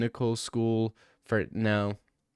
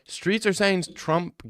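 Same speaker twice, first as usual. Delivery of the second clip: high, drawn-out rising what; incredulous shout; 8 semitones higher, much slower than usual. Real, not acted. Streamer reacting to an absurd rumor, incredulous. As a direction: yelp it in disbelief. Startled at a chat message.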